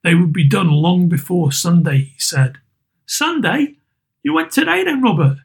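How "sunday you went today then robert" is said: high, worried wife; anxious mother. Acted. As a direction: ask gently, dreading the answer. Mother questions Bob.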